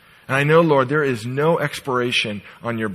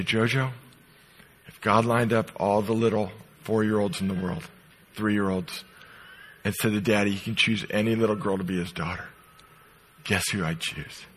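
soft, low and gentle; a father recalling his words to his little daughter; tender hushed retelling; 6 semitones lower, 7 dB quieter than usual. Retold or imitated. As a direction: speak it softly as if the child were still in his arms. Father crying, holding adopted daughter.

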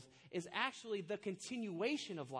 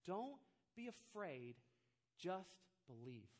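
gentle reassurance; 4 semitones lower, 5 dB quieter, slower than usual. Retold or imitated. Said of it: "and he says".

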